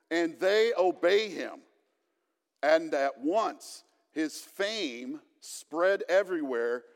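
steady, measured Bible reading; scripture reading. Acted. Pastor reading Mark to the congregation, measured scripture reading. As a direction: read the passage aloud to the congregation.

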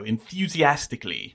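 enthusiastically with a y-glide in "thu"; gliding u sound. Shown as a demonstration. Host giving an example of the accent, "enthusiastically" with a gliding u. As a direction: sound every syllable of "enthusiastically", en-thyoo-zee-astically. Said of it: "sliding J sound in front of the U".

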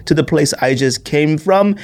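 a hint of a snooty English traveller; mock English accent. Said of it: "I use my English accent".

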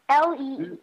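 letters one by one, L E E; spelling it out. Shown as a demonstration. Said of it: "you have to spell it for me".

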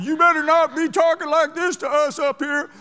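loud, high hammed-up macho threat; mock tough hero. Imagined hero confronting the passenger, hammed-up tough voice. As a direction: puff up like a fake tough guy. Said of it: "act like Mister Hero with tight pants".

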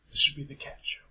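whispering. Real, not acted. Aside whisper.

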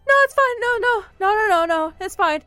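mock nervous reassurance. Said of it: "he's just like".

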